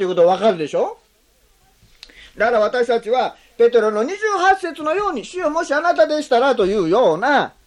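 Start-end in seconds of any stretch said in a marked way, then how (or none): 5.3-6.5 hedging, testing words; doubting tone. Shown as a demonstration. Preacher warning the congregation, doubtful hedge. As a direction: say it as if unsure. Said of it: "イエス様を疑ったり".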